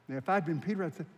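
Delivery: ordinary delivery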